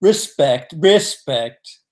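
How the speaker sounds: lightly voiced Grimsby accent; clipped-on Grimsby impression, word by word. Still impersonating the man from Grimsby, accented. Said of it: "If you can get his accent down".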